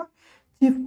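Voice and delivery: चीफ with a long "ee" vowel; चीफ, long ई in the middle; "ie" read as ई. Shown as a demonstration. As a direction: say चीफ like "cheef". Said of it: "क्या पढ़ते हैं इसको".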